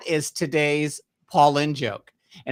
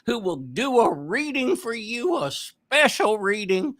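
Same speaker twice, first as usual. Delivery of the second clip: Mr. Haney voice; 5 semitones higher than usual. Retold or imitated. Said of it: "Green Acres".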